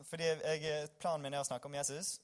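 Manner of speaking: usual speaking voice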